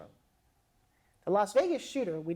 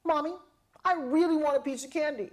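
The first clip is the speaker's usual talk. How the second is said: a hint of a child's plea, higher; lightly voiced little kid; 6 semitones higher than usual. Child asking mommy for candy, lightly higher. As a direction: ask sweetly like a small boy.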